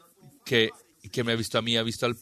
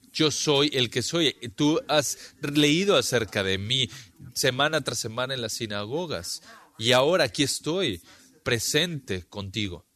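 emphatic divine declaration; 3 semitones higher than usual. Acted. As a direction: declare it like Jesus before the crowd. Jesus voiced declaring himself. (Jesús proclamando con fuerza: declaración solemne y enfática)

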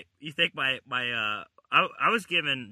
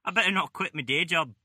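higher, badly faked Aussie accent; bad Australian accent; 5 semitones higher than usual. Admitting the impression is bad, still mock Aussie. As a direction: own up in a hammy Australian accent. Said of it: "This is me Aussie accent".

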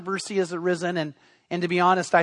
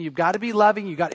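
lightly imitated wife's sermonizing; preachy wife. Wife urging husband to be loving, mildly preachy. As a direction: press the point, mildly preachy. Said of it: "she's almost preaching".

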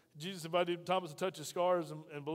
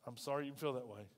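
much softer and lower, gently; quiet calm reply; 6 semitones lower, 8 dB quieter than usual. Acted. Believer quietly answering a scoffer, much lower and softer. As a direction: let it go softly and walk off.

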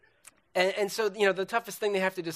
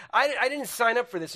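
higher-pitched husband's protest; mock angry protest; 6 semitones higher than usual. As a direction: act out a fed-up husband. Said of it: "they're mad at each other".

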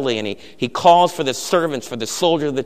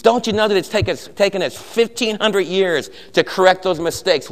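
inquisitor's scornful boast; 3 semitones higher, 3 dB louder than usual. Retold or imitated. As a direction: gloat over the crowd's weakness. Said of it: "He says".

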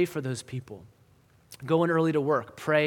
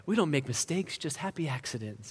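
light impression of a soft-spoken TV painter; Bob Ross; 5 dB quieter than usual. Preacher quoting a TV painter's catchphrase, lightly soft impression. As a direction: softly imitate the painter, trailing down quieter. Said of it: "he would say".

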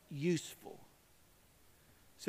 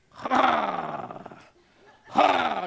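loud harsh imitated saw; chainsaw noise; 8 dB louder than usual. Preacher imitates chainsaw, loud harsh noise. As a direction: rev like a chainsaw. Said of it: "when you hear".

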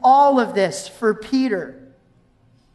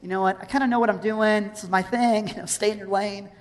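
understated, softer grumble; frustrated; 2 semitones lower, 5 dB quieter than usual. Acted. Peter objecting to Jesus's fishing advice, mildly frustrated. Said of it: "he's frustrated".

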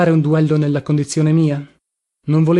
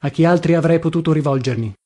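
ordinary delivery, nothing marked

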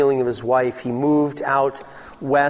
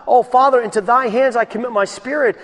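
raised, ringing cry of surrender; crying out to the Father; 9 semitones higher, 5 dB louder than usual. Acted. Preacher voicing Jesus on the cross, loud cry. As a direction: call it out loud and high to the Father.

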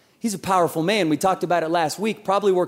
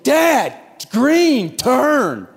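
put-on higher, louder kid yell; 6 semitones higher, 4 dB louder, much slower than usual. Boy in back seat shouting at dad at green light, higher and louder. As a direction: yell it like an impatient seven-year-old. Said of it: "literally yells at me".

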